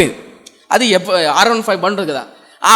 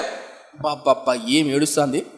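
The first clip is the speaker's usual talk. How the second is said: low, much softer, slow marvelling; awed pastor; 7 semitones lower, 10 dB quieter, slower than usual. Retold or imitated. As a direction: sigh it out in wonder. Pastor marvels at her weeping. (ఆశ్చర్యంతో మెల్లగా మెచ్చుకుంటూ)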